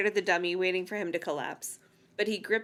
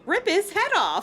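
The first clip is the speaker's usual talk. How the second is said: urgent urging; 10 semitones higher, 4 dB louder than usual. Acted. Voicing Chris urging Lindy.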